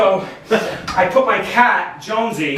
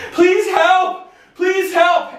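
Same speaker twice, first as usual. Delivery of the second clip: pleading prayer; 10 semitones higher, much slower than usual. Retold or imitated. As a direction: beg your dead grandmother for help. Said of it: "but I said".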